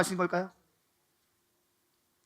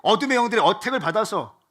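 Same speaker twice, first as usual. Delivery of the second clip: raised, loud preacher's cry of comfort; fervent preaching; 5 semitones higher, 7 dB louder than usual. Acted. Pastor to congregation in slump, loud fervent preaching. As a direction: preach it out to the whole hall, fired up.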